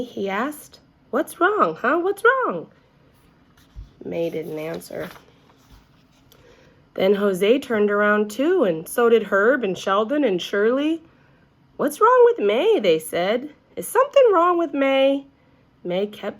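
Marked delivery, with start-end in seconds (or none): 1.1-2.7 worried asking. A narrator's reading. Lenny worried about May. 11.8-15.3 put-on high, loud alarmed children; alarmed kids. A narrator's reading. Classmates asking in alarm about May, high and loud.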